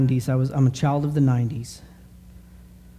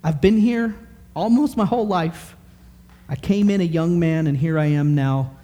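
fervent prayer; 4 semitones higher than usual. Acted. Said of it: "Daniel is praying".

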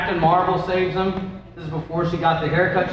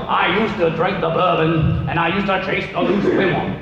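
lightly put-on Cajun testimony voice; Cajun accent. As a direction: confess it with a hint of Cajun accent. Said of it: "I don't know why he's a Cajun".

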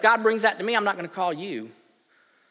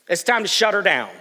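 louder, eager to wrap it up; mock restless churchgoer; impatient; 6 dB louder than usual. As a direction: push to end the service. Restless congregation.

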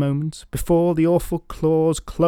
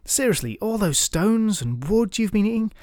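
taunting; 3 semitones higher than usual. Acted. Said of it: "taunting words".

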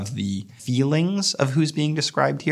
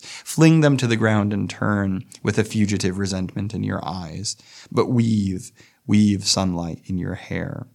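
poem reading. Acted. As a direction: let each line of the poem breathe. Reads the poem aloud.

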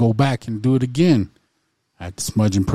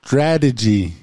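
STRATEGY said singly and deliberately; careful articulation; 3 semitones higher, slower than usual. Shown as a demonstration. Co-host shows a tricky word to the stumbler, careful articulation. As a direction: give STRATEGY its own careful beat. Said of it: "I'll say it fast".

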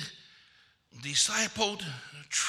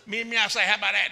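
louder mock challenge, lightly imitating; crazy girl; 6 dB louder, faster than usual. Pastor imitating a crazy girl's challenge, mock tough. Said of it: "That crazy old girl".

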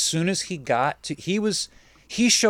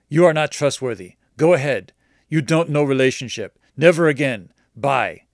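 mock angry customer; 5 dB louder than usual. Customer's angry text read.

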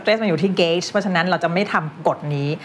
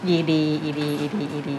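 rapid-fire low "อีดี" reminder, softly chanted; fast, low murmur-like repetition; quick repeated prompt; 3 semitones lower, 4 dB quieter, much faster than usual. Real, not acted. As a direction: nudge the learner with fast repeated letters. Prompting the forgotten ED ending.

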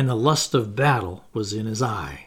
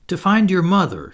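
coaxing; 5 semitones higher, 6 dB louder than usual. A narrator's reading. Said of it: "she coaxed".

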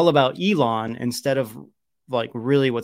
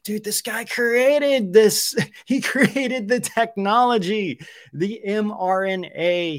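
incredulous; 9 semitones higher, 4 dB louder, slower than usual. Real, not acted. Incredulous that creator got banned.

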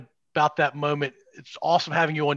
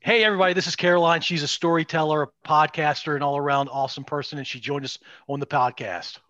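podcast promo intro. Pretend. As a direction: introduce the guest to the listeners. Records the promo intro on request.

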